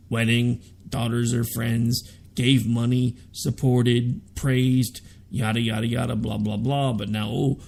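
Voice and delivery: lightly voiced Trump in a redneck twang; a hint of Trump, low and dumb; Trump impression. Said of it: "when I'm trying to do Trump".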